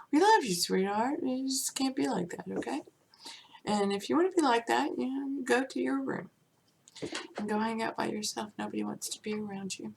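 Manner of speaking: mild mock parent sending the kid to his room; scolding parent. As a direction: chide sweetly, then shoo them off fast.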